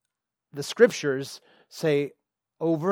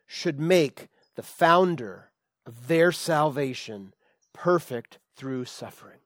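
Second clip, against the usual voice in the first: scripture reading; slower than usual. Acted. Preacher reading the verse aloud to the church, solemn and emphatic. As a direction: lift the verse out for the congregation.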